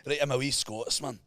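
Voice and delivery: put-on a light Glasgow accent; Scottish accent. Friend shows his Scottish impression, light Scottish accent. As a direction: try a Glaswegian lilt. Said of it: "a Scottish person talks like that".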